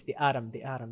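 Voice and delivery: "Autumn" in an American accent, flattened first vowel toward "Attum". Shown as a demonstration. Streamer showing how Americans say the car's name, American accent. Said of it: "That's how they say it, the Americans".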